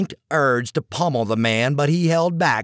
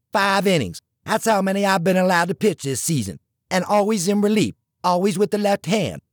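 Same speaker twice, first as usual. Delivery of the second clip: higher, pressing, indignant voice; frustrated rant; 5 semitones higher than usual. Acted. Gill venting to Tucker about the coach, higher and indignant. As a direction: vent every grievance up high.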